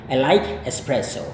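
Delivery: I like espresso said as a clear model sentence; example sentence demo. Shown as a demonstration. Teacher gives an example sentence. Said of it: "Once again".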